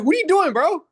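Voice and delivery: hammed-up disbelief at the trainee; mock exasperated shout. Coach's retold reaction.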